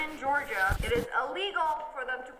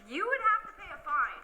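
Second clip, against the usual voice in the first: ordinary talk, nothing marked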